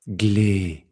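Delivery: "glé" drawn out with a gentle fall; long accented syllable. Shown as a demonstration. Teacher isolating the final syllable, held long. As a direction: stretch "glé" out, letting it descend. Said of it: "C'est plus long".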